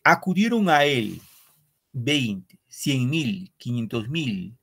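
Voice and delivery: measured, solemn reading of verse; poem recital. Acted. Teacher reading a war poem to the class, solemn recital.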